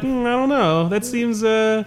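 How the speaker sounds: pondering 1950s dad with a pipe; musing dad, pipe clenched; pipe in mouth. Pretend. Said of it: "that's me miming nineteen fifties dad with a pipe in his mouth".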